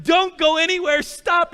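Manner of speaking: high, loud command to freeze; urgent yell. Retold or imitated. Dad stopping son tracking paint, urgent yell. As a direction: shout to halt a child, re-enacted.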